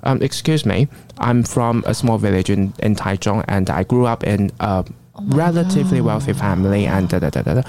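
smooth interpreter-style English; polished neutral English. Retold or imitated. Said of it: "他是这样子跟你讲话的". (中性标准英语口音)

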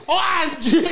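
bursts out laughing mid-curse; real laugh spilling over the words. Real, not acted. Cohost hears babi, laughing curse.

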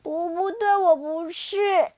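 cling to the denial; desperate denial. Acted. Xiaoliang pinned down, desperate loud denial. Child resists.

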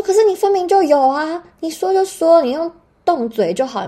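high, loud furious protest; loud, high-pitched retold argument with the nurse; angry argument. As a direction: insist hotly, voice up. Arguing with nurse.

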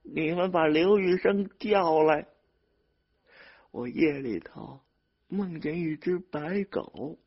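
put-on high, strained old woman's voice; ailing mother, high-pitched and stubborn; weak but firm. A narrator's reading. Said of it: "继续用微弱的声音坚定地说".

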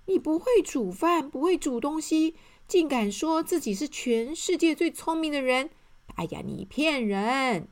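high, loud shocked accusation; gasp, then call him a liar; a shocked eater confronting the clever man; astonished. Acted. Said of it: "很讶异说".

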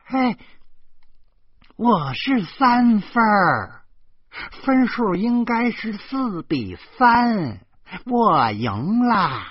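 high, loud, slow crowing over a card win; drawn-out triumphant holler; aunt hollering. A narrator's reading. Aunt shouts her card score across the table, high and loud. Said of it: "就听大姨嚷嚷".

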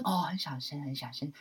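quiet. Shown as a demonstration. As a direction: drop right down to a soft voice.

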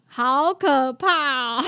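a real little wail about the scary bird; half-laughing scared. Real, not acted. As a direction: drag it out like a half-joking cry of fear.

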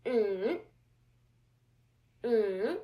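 "mm" hummed falling, then swinging back up; third tone demo. Shown as a demonstration. Teacher modelling the third tone for learners, dipping hum that rises. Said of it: "The third tone is".

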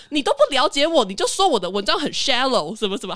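mock wounded pride, pushing back; a bit annoyed. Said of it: "他就有一点生气".

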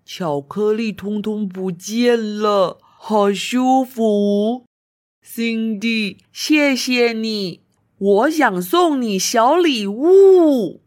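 slow, grateful snail voice; relieved little snail. Acted. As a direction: sigh with relief, thankful. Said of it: "他说".

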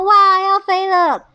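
high, loud, stretched cry; excited exclamation. A narrator's reading. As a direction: cry out slowly at taking off. 跷跷板起飞时惊呼. (拉长声音兴奋地高喊)

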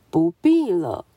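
a solemn, noble zebra brushing them off; serious zebra. Acted. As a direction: zebra politely declining to play. Zebra refuses.

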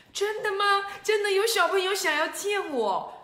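high, loud, thrilled disbelief; excited. Acted. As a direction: squeal with delight that a child wants to meet you. Hero thrilled to be wanted.

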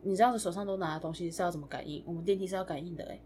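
doorman's quiet annoyed grumble; muttering. Retold or imitated. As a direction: grumble it half to yourself. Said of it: "很小声的碎念讲说".

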